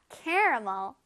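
"caramel" said the teacher's preferred way; teacher's own pronunciation. Shown as a demonstration. Teacher shows pupils her own way, careful pronunciation of "caramel". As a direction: model "caramel" with its middle vowel kept. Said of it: "선생님은 발음해요".

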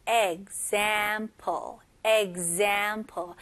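example said slowly, eg-ZAMPLE with g sliding into z; slow model word. Shown as a demonstration. Teacher drills example slowly, g into z for the class. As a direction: spell out example: g then z. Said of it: "G처럼 시작해서 그 다음에 Z로 넘어가는".

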